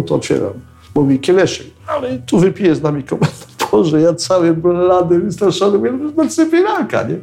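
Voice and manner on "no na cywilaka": ordinary delivery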